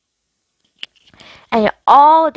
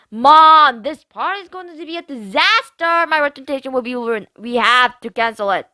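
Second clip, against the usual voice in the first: put-on higher, bratty teen complaining to mom; mean girl griping at her mom; spoiled girl whining; 5 semitones higher than usual. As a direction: whine like a spoiled rich girl. Mackenzie voiced.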